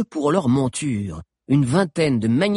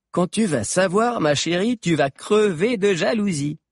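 higher, smug gossip; gossipy girl; 8 semitones higher than usual. A narrator's reading. A girl boasts to her friend, high and gossipy. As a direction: boast to make her jealous.

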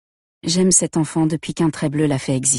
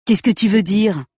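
higher, louder mocking mimic of her question; mocking imitation; 5 semitones higher, 4 dB louder than usual. A narrator's reading. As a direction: parrot her words back to belittle her. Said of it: "Répète-t-il en m'imitant". (imitation moqueuse, plus aiguë et plus forte)

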